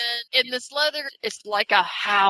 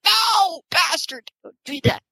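mock anguished cry; 9 semitones higher than usual. Reacting to a book character, in a high mock wail. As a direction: yelp it at the character in mock despair. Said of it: "And I'm like".

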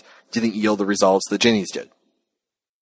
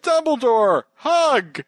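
mock eager Harry; 12 semitones higher, much slower than usual. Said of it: "He's like".

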